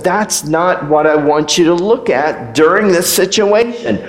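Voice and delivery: lightly voiced firm, fatherly rebuke; a hint of stern God correcting. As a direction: set them straight, gently stern. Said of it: "When God says".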